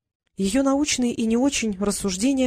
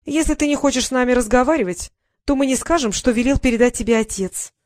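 put-on higher, louder little-girl voice; thin little voice; 5 semitones higher, 4 dB louder than usual. Little sister teases locked-in sibling, higher thin voice. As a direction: squeak it out like a smug little sister. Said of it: "тоненьким голоском сообщила Дейла".

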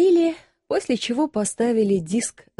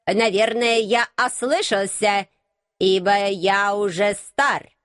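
surprised robot abbot. Acted. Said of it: "удивлённо возразил".

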